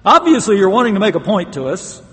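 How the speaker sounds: high, loud, incredulous-style appeal; questioning God. Acted. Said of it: "I'll have to ask him".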